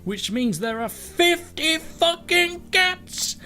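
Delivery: a fussy English butler, indignant by the end; posh English butler. Acted. Kale the cat explains the new election laws, posh English butler voice. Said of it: "Kale has taken on the sort of voice of".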